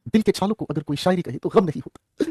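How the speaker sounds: slow, soft reading of a couplet; slow poetic recitation. Shown as a demonstration. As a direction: recite it like a shayari. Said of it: "recites the sher twice". (शायरी के अंदाज़ में धीरे से)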